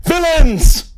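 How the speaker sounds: piercing high scream of accusation; shriek. Acted. Killer shrieking at the officers, piercing scream. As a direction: scream it at them. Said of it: "I shrieked".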